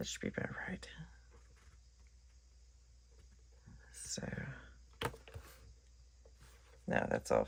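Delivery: hoarse, scratchy, very quiet, almost whispered voice. Trimming pieces and checking if they are off: scratchy voice. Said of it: "my voice is so scratchy".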